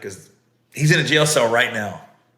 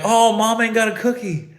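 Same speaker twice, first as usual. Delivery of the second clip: mock dismay; 8 semitones higher than usual. Parents react to cookie reveal.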